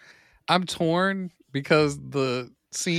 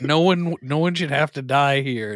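imitated emphatic plea; 2 semitones lower, 4 dB louder than usual. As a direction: retell the plea loudly, dragging out the words. Acted standoff plea continues after laugh.

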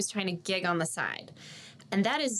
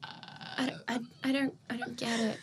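baffled stammer; 2 semitones higher, 6 dB quieter than usual. Retold or imitated. Retelling own baffled reaction to laughter.

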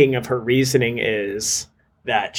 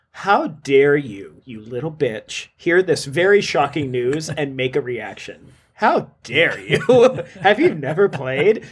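mock annoyance. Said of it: "she says it with so much annoyance".

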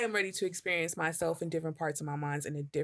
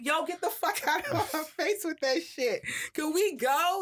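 much higher, laughing retold brush-off; mock snapping; 10 semitones higher than usual. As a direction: snap her off, laughing. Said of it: "she's like".

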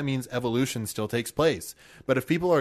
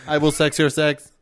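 toy robot voice; 3 semitones higher, 6 dB louder than usual. Pretend. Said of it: "I am Sting Sex Robot".

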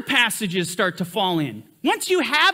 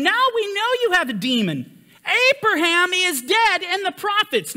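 higher, raised accusing voice of the Jews; indignant Jews; 7 semitones higher than usual. Retold or imitated. Jews answering Yeshua, retold.

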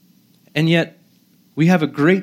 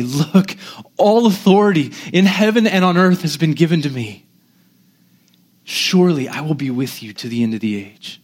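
lovingly assuring. Acted. Preacher as Jesus leaning in to the disciples, lovingly assuring. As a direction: assure them with gentle authority. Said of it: "gently, meekly, compassionately, lovingly say".

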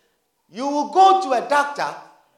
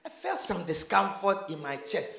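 much softer, fast and timid; quiet mock complaint; 2 semitones lower, 11 dB quieter than usual. Patient tells the doctor about chest discomfort, quietly and timidly. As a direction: play the meek patient.

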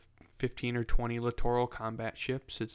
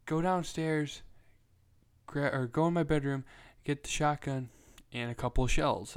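imitating an urgent dad, pitched up; frantic dad; 4 semitones higher than usual. Dad ordering his wife to fetch the shotgun, mock frantic. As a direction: rush the orders like a panicked father.

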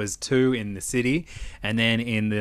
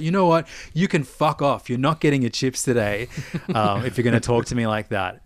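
angry telling-off. Retold or imitated. Telling the customer off.

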